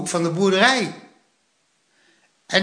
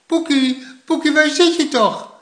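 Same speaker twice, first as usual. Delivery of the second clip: high, urgent call; worried calling out; 11 semitones higher, 5 dB louder than usual. A narrator's reading. Grandma searching the snow for Poekie, urgent calling. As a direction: call out for a missing child. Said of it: "riep oma".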